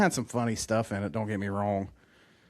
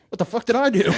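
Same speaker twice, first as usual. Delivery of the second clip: high, louder mock protest; imitating Dane Cook's character; 11 semitones higher, 6 dB louder than usual. Retelling the party scene, a high, louder mock protest. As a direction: protest like you're innocent. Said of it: "He's like".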